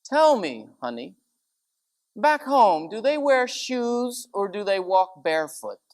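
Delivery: mock the condescending English accent; imitating a snobbish English lady asking a Greek; proper English lady. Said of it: "very proper lady said".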